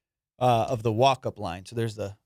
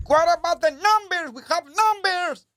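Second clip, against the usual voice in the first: confused guy in line; 4 dB louder than usual. Retold or imitated. Man in line asking staff about numbers, high put-on voice. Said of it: "like, Mexican dude".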